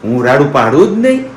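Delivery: lightly voiced innocent baby daughter; speaking as the baby. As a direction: play the good little girl denying it. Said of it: "બાકી હું તો ડાહી દીકરી છું". (દીકરી બનીને નિર્દોષ અવાજે)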